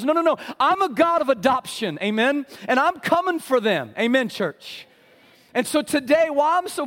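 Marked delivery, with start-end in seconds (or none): 0.0-4.9 firm, declaring God; lightly voiced divine answer; a hint of God's resolve. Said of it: "and God says".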